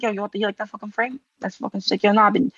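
quick, lightly put-on Staten Island accent; hint of Staten Island in a rushed retelling; Spam. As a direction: imitate a buddy's fast Staten Island chatter. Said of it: "giving him such a Staten Island accent".

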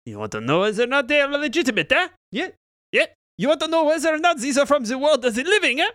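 high, sneering repetition; mock incredulous taunt; mocking echo. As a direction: throw their words back at them. Myconid mocks the question.

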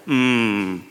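eye-rolling waiter. Retold or imitated. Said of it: "you can almost hear his eyes rolling".

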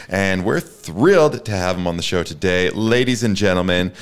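emcee reading a glowing bio; lively show-host announcement; guest introduction. Real, not acted.

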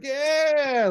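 very high, drawn-out cheer; imitated crowd scream. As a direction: whoop like a rowdy clapping crowd. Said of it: "screaming with the boot".

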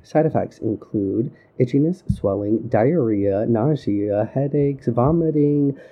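flat drug ad disclaimer read; boring droning parody. Pretend. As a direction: drone the side effects in a flat voice. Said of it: "such a low monotone voice".

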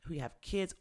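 high, eager mock excitement; excited contestant. Gay contestant thrilled by a kindred spirit, high mock excitement. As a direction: gush about finding someone like him. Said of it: "So he's like".

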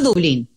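Dublín said as in Spanish, stressed on the last syllable; Spanish pronunciation. Shown as a demonstration. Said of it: "en español". (Dublín pronunciado en español)

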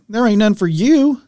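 dad's teasing reply. Retold or imitated. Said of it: "He goes".

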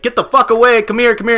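loud frantic shouting; panicked yelling. Retold or imitated. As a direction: yell at the kids to come back. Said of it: "I'm gonna be like".

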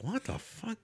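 high, puzzled mock exclamation; head-scratching what-the; confused disbelief. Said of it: "I'm like".

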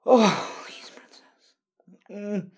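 high, loud, begging moans; loud desperate pleading. Acted. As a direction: cry out, begging her.

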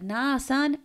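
high, drawn-out playful brush-off; mock dismissal. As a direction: imitate her waving him away. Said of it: "She's like".

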